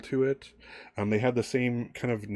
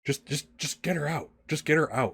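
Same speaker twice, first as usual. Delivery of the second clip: higher, insistent repeated plea; lightly acted desperate man; urgent pleading; 7 semitones higher than usual. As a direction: press them to act, voice raised in pitch. Urgent man cuts off questions.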